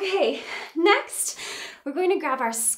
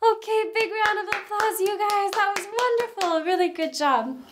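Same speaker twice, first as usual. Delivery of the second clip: excited praise; 8 semitones higher than usual. Real, not acted. Cheering the children.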